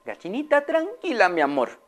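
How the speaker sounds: high, soothing then scolding lady's voice; calm the hen, then firmly tell her to stop; Señora Amelia. Acted. Owner soothing then scolding her tantrum hen, high voice. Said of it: "le dijo".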